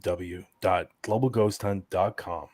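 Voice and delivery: slightly radio-style web address read. Real, not acted. Host reads the ghost hunt website for listeners, radio voice. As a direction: read it out like a radio announcer, lightly. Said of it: "That sounded very radio".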